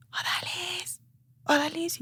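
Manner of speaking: nombre llamado en susurro agudo; llamado lejano imitado. Retold or imitated. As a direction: imitar en voz muy queda a quien llama de atrás. Tío la llama desde atrás. (llamado suave y agudo)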